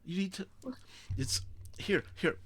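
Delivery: high-pitched, gently hurried reassurance; calm a shocked friend, voice lifted high; soothing. Acted. Pollux comforting Lapis after the push, soothing.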